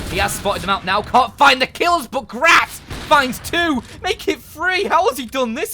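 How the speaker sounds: very high, very loud caster yell; excited shouting. Real, not acted. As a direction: scream the clutch play as it happens, stretching the big moments. Caster calling a clutch round.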